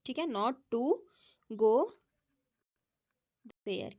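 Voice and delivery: drawn out word by word; slow dictation. Shown as a demonstration. Teacher dictating the answer to students. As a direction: dictate it slowly for writing down.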